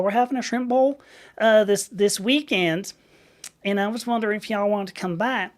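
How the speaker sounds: high, chatty Southern receptionist; Georgia front-desk accent. Retold or imitated. Receptionist inviting a caller to a shrimp bowl, Southern accent. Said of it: "it's a Georgia accent".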